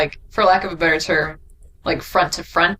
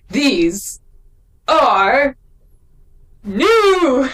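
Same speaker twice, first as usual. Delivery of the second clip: THESE, ARE, NEW each punched separately with long gaps, rising higher and louder; "These... ARE... NEW", each word its own big blast; emphatic; 7 semitones higher, 4 dB louder, much slower than usual. Acted. Co-host acts out the book's emphatic line, hammed-up emphasis. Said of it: "because he said it emphatically".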